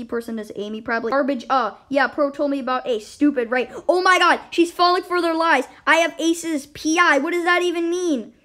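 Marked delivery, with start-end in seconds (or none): 3.9-8.3 outraged disbelief. Real, not acted. Indignant reaction to chat messages.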